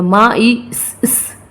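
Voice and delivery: मा ई स, स with a separate second hiss of स; doubled sound, wrong way. Shown as a demonstration. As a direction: sound out the final स twice, as a mistake. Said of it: "इस तरीके से नहीं करेंगे". (ग़लत तरीका, स की आवाज़ दो बार)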